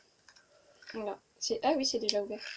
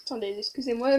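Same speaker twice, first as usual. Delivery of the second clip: talking with a mouthful; mouth full. Real, not acted. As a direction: speak around a mouthful of food. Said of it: "mais je dois avaler".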